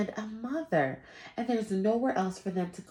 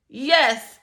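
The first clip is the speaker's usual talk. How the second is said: surprised; 7 semitones higher, 12 dB louder than usual. Acted. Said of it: "though he was a bit surprised".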